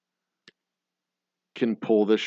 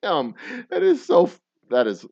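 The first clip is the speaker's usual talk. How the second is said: amazed reaction; 8 semitones higher, 6 dB louder than usual. Retold or imitated. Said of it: "I'm like".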